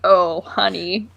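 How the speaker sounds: slow, low, pitying; drawn-out sympathetic sigh of words; pitying oh honey. Retold or imitated. Viewer pities the actor's answer, slow low oh honey. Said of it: "And you're like".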